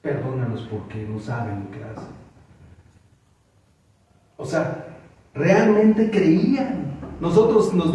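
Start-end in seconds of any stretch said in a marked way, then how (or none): 0.0-2.1 tag. Retold or imitated. Esteban's real prayer, against the parody.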